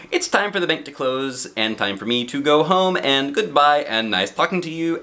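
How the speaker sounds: lightly voiced rapid chatter; chatty goodbye. Miss Chatterbox chatters her goodbyes to Mister Happy, lightly voiced. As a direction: pile the goodbyes on one another. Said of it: "continued Little Miss Chatterbox".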